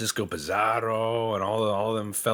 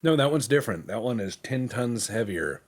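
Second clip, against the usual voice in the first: indignant insistence; 4 semitones higher, 4 dB louder than usual. Retold or imitated. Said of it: "And I'll be like".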